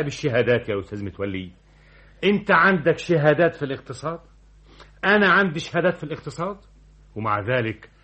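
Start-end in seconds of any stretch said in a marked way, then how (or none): 2.2-6.6 indignant. Acted. Director boasts angrily to deputy.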